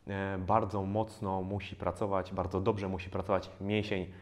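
normal talking voice

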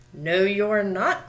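menacing drawn-out troll voice; troll growl. A narrator's reading. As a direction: growl it out slowly, with force. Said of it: "growled the troll".

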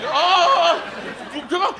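scared. Retold or imitated. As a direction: act out a nervous, pleading yelp. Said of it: "I got scared".

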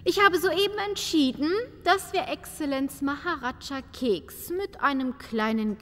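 brisk announcement. Acted. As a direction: declare it briskly. Countess announces decision.

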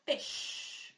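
Fish with the F held, teeth on lip; bite lip sound. Shown as a demonstration. Teacher models the bite lip sound for children. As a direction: stretch the f of Fish, unvoiced. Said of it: "our bite lip sound".

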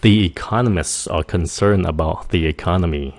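economists run straight into are, T dropped; connected natural speech. Shown as a demonstration. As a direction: say it as one flowing phrase, economiss. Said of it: "nên phát âm nhanh".

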